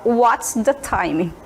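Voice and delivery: very slow careful question; slow British phrase. Shown as a demonstration. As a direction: model the British form slowly. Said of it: "o britânico fala". (frase britânica bem lenta)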